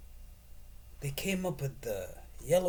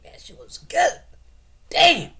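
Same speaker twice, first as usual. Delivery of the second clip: hammed-up loud praise, higher; a jokey shouted rave, much higher and louder; mock relish shout; 13 semitones higher, 15 dB louder than usual. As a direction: belt it out like the best bite ever.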